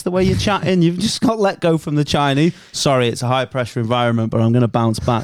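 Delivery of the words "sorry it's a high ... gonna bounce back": lightly voiced reality show reject; upbeat brave-face exit speech; Apprentice contestant. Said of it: "You sound like you've just been voted off The Apprentice".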